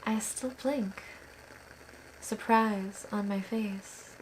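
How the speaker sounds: measured poem recital with long pauses; unhurried, even-toned verse reading; poetry reading. Acted. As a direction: read it line by line, letting each phrase settle. Reads own poem aloud.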